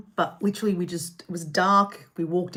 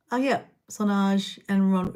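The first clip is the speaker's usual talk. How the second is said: talking while chewing; words round a bite of burger; mouth full. Real, not acted. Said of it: "I'm gonna attack my burger again".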